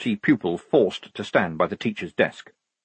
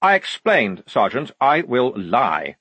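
testy insistence; 3 semitones higher, 3 dB louder than usual. Acted. Lieutenant correcting his sergeant, testily insistent. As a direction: insist with strained patience.

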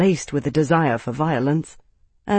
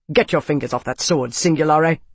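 commanding. Acted. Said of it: "an abrupt whip crack of authority".

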